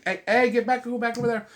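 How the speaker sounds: high loud hey hey, sudden break from talk; shooing the dog. Real, not acted. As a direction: bark orders at the dog mid-thought. Shooing dog mid-sentence.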